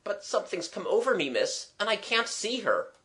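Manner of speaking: put-on high, quick bewildered young man; gentleman friend. Gentleman friend telling miss he can't see her, bewildered.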